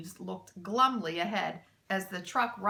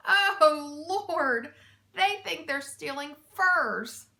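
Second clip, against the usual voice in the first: louder, higher words through laughter; laughing hard; 6 semitones higher, 6 dB louder, slower than usual. A narrator's reading. Mac mocks the thieves' mistake, laughing. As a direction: speak through tears of laughter. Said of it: "He laughed so hard".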